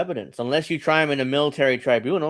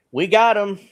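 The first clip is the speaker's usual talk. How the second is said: higher, louder mock cheer; mock excited; 8 semitones higher, 5 dB louder than usual. Host imitating excited right-wingers, mock-excited. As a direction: imitate a gloating, excited crowd. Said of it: "they're all excited".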